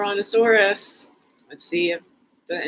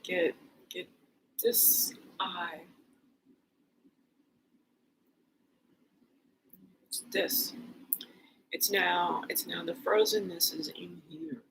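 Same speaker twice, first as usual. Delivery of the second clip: whisper; 4 semitones lower, 9 dB quieter than usual. Real, not acted. Whispering while doing eye exercise.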